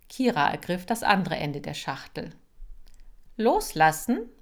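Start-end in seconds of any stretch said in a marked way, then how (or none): 3.4-4.3 high, loud order; sharp command. Acted. Kira ordering Boris to let go, loud and sharp. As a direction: snap the command at him. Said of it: "befahl sie".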